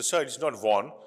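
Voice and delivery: "von" said as students say it; imitating a student saying "von"; mock student objection; students' correction. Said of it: "they will say".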